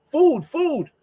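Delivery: lightly mocked pleading; pleading repeat. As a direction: beg for food with one word. Pleading for food abroad.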